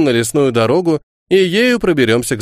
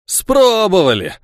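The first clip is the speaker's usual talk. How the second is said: high, slow and sly; smirking; 7 semitones higher, slower than usual. Acted. Old guard boasting about the French raid, sly smirk. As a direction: drawl it with a smirk. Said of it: "ухмыльнулся Егор".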